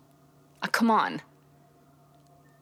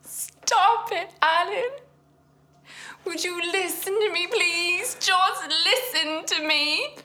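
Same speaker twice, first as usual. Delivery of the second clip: higher and louder, urgent demand; insistent pleading; 10 semitones higher, 6 dB louder than usual. Acted. Wife pleading with husband to be honest, loud. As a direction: force him to finally answer.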